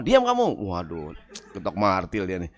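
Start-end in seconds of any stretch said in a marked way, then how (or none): 0.0-0.6 mild mock snap. Angry boss snapping at employee.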